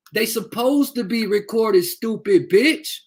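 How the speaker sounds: slow, spaced-out furious words; slow angry. Real, not acted. Mother hammering a troll slowly, high and angry. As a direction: drag it out slowly in anger.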